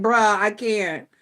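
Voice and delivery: slow, breaking into crying laughter; can barely get it out for laughing; retelling the chat, cracking up at her own reply. Real, not acted.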